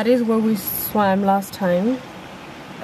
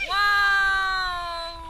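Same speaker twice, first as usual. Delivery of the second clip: surprised; 8 semitones higher, 4 dB quieter than usual. Real, not acted. Reacting to the cold water.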